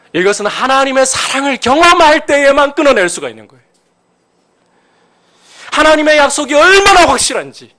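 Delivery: very high, loud sermon climax; impassioned, shouted preaching; full-force preaching. Real, not acted. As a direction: cry it out with fervent conviction.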